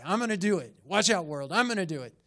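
mildly boastful, punchy declarations; lightly acted overconfidence; cocky self-belief. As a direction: announce yourself to the world with bravado. Voicing Peter's overconfident self-talk.

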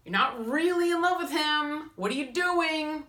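high, loud, urgent wake-up call. Pretend. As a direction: snap her out of it, loud and high. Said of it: "your higher self saying".

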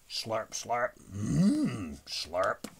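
spoken slurps with a savoring "mmm"; eating noises. A narrator's reading. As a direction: mimic a dinosaur enjoying supper. Dinosaur eating supper in story.

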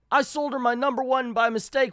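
high-pitched acted dismay; panicked realisation. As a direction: wail the blunder in cartoon panic. Scrooge realises his mistake.

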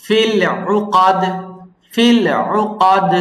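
উকাদ with a softly pressed throat ain; উকাদ, correct soft ain. Shown as a demonstration. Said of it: "গলার মাঝখানে হালকা pressure দিয়ে বলতে হবে".

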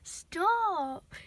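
a loud, firm command; sharp stop. Real, not acted. Owner stopping cat biting her tablet, loud command. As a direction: snap it out to halt the cat.

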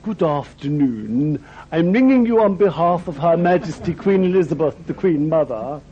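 a hint of a grand royal secretary, patiently repeating herself; very posh lady. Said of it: "and she said".

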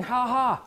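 short mock ha-ha; demonstrated laugh. Shown as a demonstration. Preacher shows how unspeakable joy comes up, imitated laugh. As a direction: act out a brief joyful laugh. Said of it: "Comes up as a laugh".

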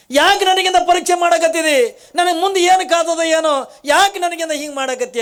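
high, loud wailing plea; anguished lament. Acted. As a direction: cry out to God in distress. Kalavve laments being tested. (ದುಃಖದಿಂದ ಗೋಳಾಡುವ ದನಿ)

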